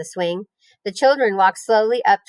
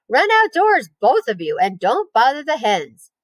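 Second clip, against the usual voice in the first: bossy aunt; 4 semitones higher than usual. Acted. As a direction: shoo the kids out firmly. Aunt shooing children outside.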